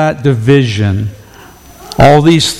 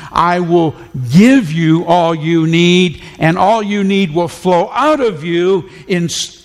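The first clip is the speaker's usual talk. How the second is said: rising fervor; 5 semitones higher than usual. Real, not acted. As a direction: voice climbing higher in wonder. Preacher builds to rhetorical climax.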